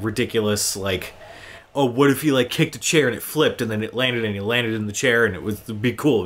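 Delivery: ordinary talk, nothing marked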